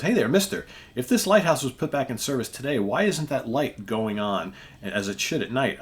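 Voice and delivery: captain shouting for the vanished keeper; calling out suspiciously. Acted. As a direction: call after him, doubting.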